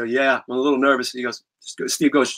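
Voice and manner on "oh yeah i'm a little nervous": nervous. Retold or imitated. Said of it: "I said".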